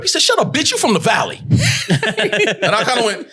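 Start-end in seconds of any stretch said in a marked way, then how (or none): 0.2-1.4 high, shouted retold dismissal; scornful put-down. Co-star mocks actor for being from the Valley, scornful put-down. Acting out Ving's scornful comeback.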